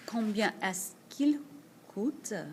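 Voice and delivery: slow, careful French combien est-ce qu'il coûte; French model phrase. Shown as a demonstration. Teacher modelling the masculine question, slow and careful. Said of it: "when you're talking about something masculine".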